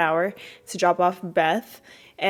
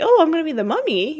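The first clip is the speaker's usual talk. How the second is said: high, fast, eager; bubbling over with excitement; excited girl; 8 semitones higher, faster than usual. Retold or imitated. Girl told to be the mummy, high excited chatter. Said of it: "Vanessa's excited".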